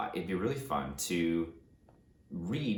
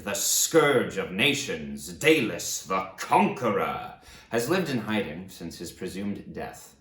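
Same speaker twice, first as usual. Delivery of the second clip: dramatic blurb read; 3 dB louder than usual. Acted. Reading the back cover to viewers, epic trailer voice. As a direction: sell the premise like a movie trailer.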